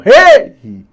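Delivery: Hey! called out high and loud; shouted at the gate. Shown as a demonstration. Teacher repeating the gate call for students, high shout. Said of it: "chega no portão e fala".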